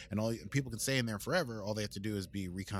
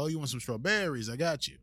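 put-on Brooklyn accent; 4 semitones higher than usual. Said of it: "And they'll go".

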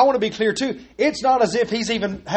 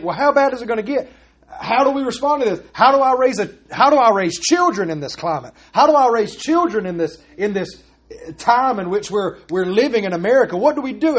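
mock worried believer; 4 semitones higher than usual.

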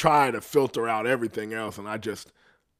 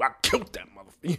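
proud dad; 4 semitones higher, 3 dB quieter, much faster than usual. Pretend. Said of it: "I fucking love you".

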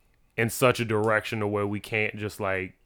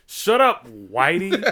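mock shouted put-down; 6 semitones higher, much slower than usual. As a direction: imitate a relative shouting someone down. Imitating relatives shouting Ian down.

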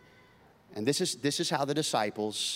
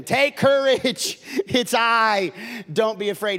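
1 Jesus reassuring; 6 semitones higher, 6 dB louder, slower than usual. Acted.

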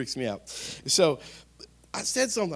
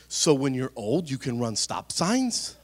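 put-on skeptical child; 3 dB louder, slower than usual. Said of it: "She said".

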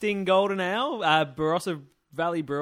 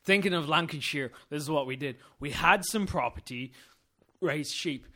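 put-on Lancashire accent. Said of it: "Yeah, well, in Lanca".

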